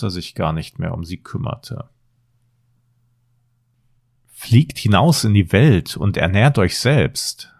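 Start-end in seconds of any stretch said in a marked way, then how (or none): 4.3-7.5 evil queen. Acted. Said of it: "sagte die böse Königin".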